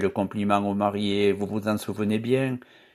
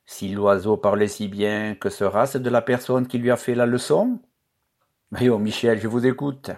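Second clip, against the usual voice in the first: light teasing mockery; playful mocking tone; mocking gaiety. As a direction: tease him, cheerful and sly. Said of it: "d'un ton de gaieté railleuse".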